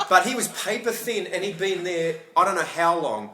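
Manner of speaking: laughing. Real, not acted. Laughing over the frog.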